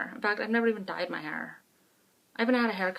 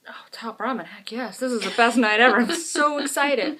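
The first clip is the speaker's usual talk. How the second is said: mock excited kid; 6 dB louder than usual. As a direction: play the thrilled kid. Kids' excited reply.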